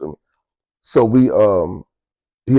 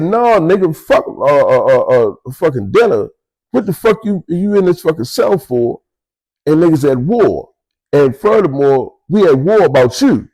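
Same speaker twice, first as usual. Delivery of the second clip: raised pitch, furious retold confrontation; higher, furious shouted questions; enraged yelling; 4 semitones higher than usual. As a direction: tear into him for hiding in his cell. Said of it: "So I was so enraged".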